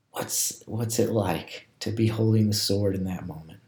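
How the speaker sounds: soft, reflective prompting; hushed contemplative guidance with long pauses; guided meditation. Real, not acted. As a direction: ease listeners gently into the scene, leaving space. Leads a guided scripture reflection.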